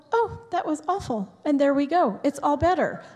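high, sing-song Hallmark heroine; breezy, everything-is-fine voice; fluffy movie voice. Retold or imitated. Mocking fluffy Hallmark movie line.

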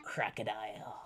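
breathy whispered punchline. Acted. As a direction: whisper the last word. Whispered end of rhyme.

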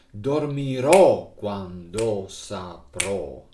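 end-stressed dormirò quando saprò. Shown as a demonstration. Teacher contrasts Italian words with end stress. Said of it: "and not".

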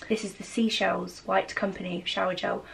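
low, soft sultry ad voiceover; M and S advert voice. Pretend. Reading a shower gel label to viewers as an M and S advert voiceover, low and soft. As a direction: purr it like a posh food advert narrator. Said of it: "I'm gonna read it in my M and S voice".

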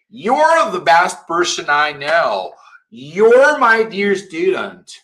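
slow, careful delivery; slow teacher demo; slow model sentences. Shown as a demonstration. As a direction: read them slowly to the class. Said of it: "teacher models slowly".

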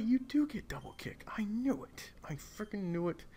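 high, excited whisper; gleeful whisper. Real, not acted. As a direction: hiss it gleefully to yourself. Gleeful after confirmation.

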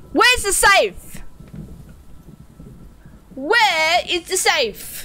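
high, slow exasperated demand; irritated, drawn-out question; getting angry. Real, not acted. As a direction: draw out each word in rising frustration. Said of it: "I'm getting angry now".

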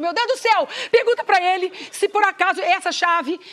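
mais aguda, aflita e devagar. Retold or imitated. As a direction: manda perguntar, nervosa. Mônica aflita mandando perguntar. (Mônica aflita manda perguntar em inglês)

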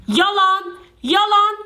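high mocking sing-song on each word; sing-song taunt. Real, not acted. Taunting her ex-friends to viewers, high sing-song mocking.

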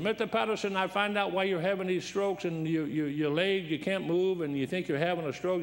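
excited doctor jumping in with news, mildly imitated; imitated Korean doctor. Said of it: "here comes a Korean doctor".

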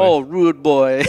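loud, drawn-out delight. Real, not acted. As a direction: savor the idea out loud. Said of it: "a demon dressed as a rude boy".

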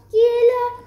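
high, loud call from bed; old lady calling out. A narrator's reading. Grandmother asking who knocks, calling out from bed. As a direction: call sharply up and out to the door. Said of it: "demanda la vieille dame du fond de ce lit".

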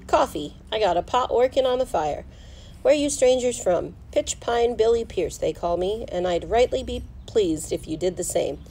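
a hint of a backwoods miner making strangers welcome; lightly played rustic old-West talker; lightly voiced friendly miner.

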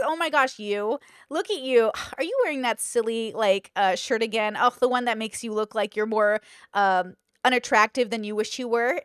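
lightly acted flippant friend. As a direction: toss it off like a backhanded compliment. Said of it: "she's flippantly talking to you".

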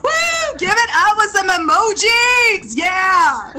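high whooping emcee cheer; rally the audience to applaud; hyping the crowd. Acted. Host whipping up crowd applause.

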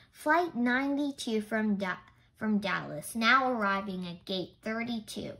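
mildly voiced loudspeaker announcer; airport announcement. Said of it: "The announcement was coming from a metal speaker".

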